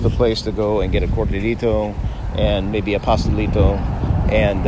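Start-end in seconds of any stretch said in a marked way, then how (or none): 1.1-1.9 Spanish word in a gringo accent; American accent Spanish. Real, not acted. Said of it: "I'm saying it with a gringo accent". 3.0-3.8 Spanish word in a gringo accent; American accent Spanish. Real, not acted. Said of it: "I'm saying it with a gringo accent".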